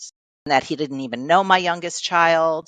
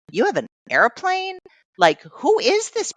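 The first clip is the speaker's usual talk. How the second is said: much higher, incredulous squeal; astonished disbelief; 13 semitones higher than usual. Retold or imitated. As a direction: react as if meeting a total stranger, amazed. Retold astonishment at father-in-law's airplane.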